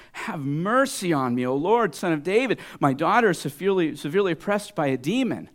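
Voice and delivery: acted cry for help; crying plea. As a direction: mock-desperate mother's cry, high and loud. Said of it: "she's crying. She's saying".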